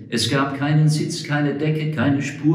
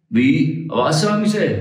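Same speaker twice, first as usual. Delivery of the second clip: irritated; 5 semitones higher, 3 dB louder than usual. Acted. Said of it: "fragte der Hobble Frank gereizt".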